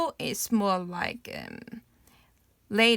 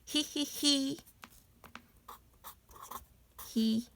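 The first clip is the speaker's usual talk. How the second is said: higher sneaky hee-hee; cheeky little-brother giggle; 4 semitones higher, 7 dB quieter, much faster than usual. Shown as a demonstration. Teacher demoing little brother's laugh, cheeky giggle. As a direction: snicker like a little kid. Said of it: "looks like, um, brother".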